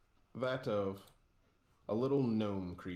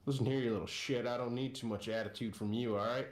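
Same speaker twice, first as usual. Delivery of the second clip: mildly angry scolding; 2 semitones higher, faster than usual. Acted. Captain scolds mouthy captive.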